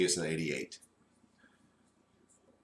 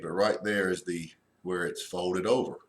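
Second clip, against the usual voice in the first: ordinary talk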